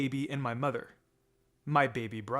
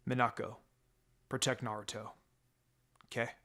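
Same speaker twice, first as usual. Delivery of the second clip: soft, lower, tender request; gentle farewell; 3 semitones lower, 5 dB quieter than usual. Acted. Dying father asking daughter to protect her brother, soft and tender. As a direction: say it gently as a goodbye.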